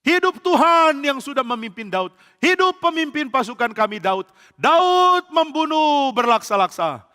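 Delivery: high, loud chant of praise; crowd praising. Acted. The people hail Daud's victory, high and loud. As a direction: hail the hero. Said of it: "semua rakyat memuji".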